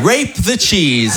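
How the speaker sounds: Rape the cheese said very slowly, leaning on rape; slow repeat. Shown as a demonstration. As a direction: spell out the punchline slowly. (répété lentement, en appuyant sur rape)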